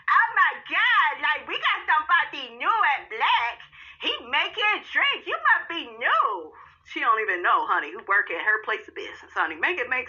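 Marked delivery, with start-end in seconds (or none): 0.1-6.5 high, slow, swooning delight; excited gushing. Real, not acted. Host swooning over new bartender. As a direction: gush over the new guy.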